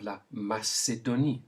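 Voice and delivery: "la Macédonie" in French with an s sound for the c; French pronunciation. Shown as a demonstration. Teacher gives learners a country to repeat, French pronunciation. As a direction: model "la Macédonie" as ma-say-do-NEE. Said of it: "All with the s sound".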